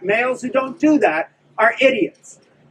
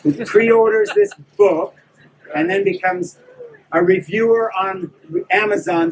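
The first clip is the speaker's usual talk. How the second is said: said slowly. Shown as a demonstration. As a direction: drag it out slowly so it sinks in. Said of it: "I'll say it slowly".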